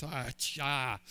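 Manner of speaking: a rueful little chuckle at himself; sheepish laugh. Retold or imitated. Peter laughing at himself over his tiny pebble, sheepish chuckle. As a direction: laugh off your own mistake. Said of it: "kind of laughs at himself and goes".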